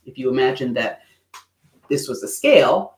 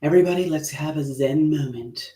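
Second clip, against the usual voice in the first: mock zen calm. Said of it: "It's like".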